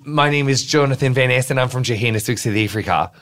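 attempted South African accent, drifting toward Australian. Shown as a demonstration. Guest showing off a South African sentence, South African accent. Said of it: "I can do a really good South African sentence".

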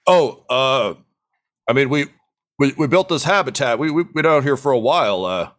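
lightly voiced, hesitant stranger; halting and flustered, speeding up into questions; awkward gunman. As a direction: stammer through it, caught off guard. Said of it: "looks around a little awkwardly".

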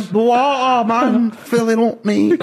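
high, slow, squeaky panicked voice; stretched out, near a giggle; laughing high put-on voice. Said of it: "I'm like".

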